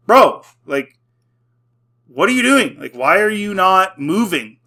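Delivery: calling out the frozen Jedi in disbelief; incredulous callout. Retold or imitated. Mocking the Jedi standing still.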